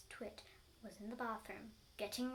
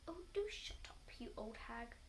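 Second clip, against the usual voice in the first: grumpy Mister Twit; 4 dB quieter than usual. Acted. Husband snaps at wife in story.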